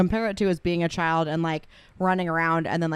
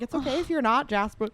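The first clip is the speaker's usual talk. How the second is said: much higher coaxing voice; imitating tender reassurance; 8 semitones higher than usual. Family reassuring little cousin, high coaxing voice. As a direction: comfort a little kid. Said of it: "You're like".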